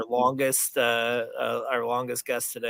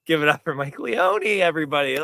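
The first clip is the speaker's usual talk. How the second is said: lightly hyped-up host announcing a guest; emcee introduction; 2 semitones higher, 4 dB louder than usual. Pretend. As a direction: bring on the guest like a show emcee.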